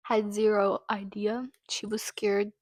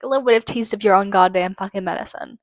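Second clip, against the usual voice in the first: angry; 5 dB louder, faster than usual. Real, not acted. Angry rant at the killer.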